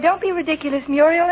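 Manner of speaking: mock angry husband. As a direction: mimic his cross retort, half-teasing. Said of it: "you got angry and said".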